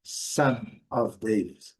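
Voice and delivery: slow "Son of David" as model English; pronúncia em inglês. Shown as a demonstration. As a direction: spell out "Son of David" slowly, word by word. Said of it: "nós vamos falar". ("Son of David" devagar, em inglês)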